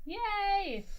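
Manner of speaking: high, loud gleeful yay; excited cheer. Real, not acted. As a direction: cheer like you just won. Cheering enemy falling.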